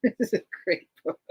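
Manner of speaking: laughing repeat. Shown as a demonstration.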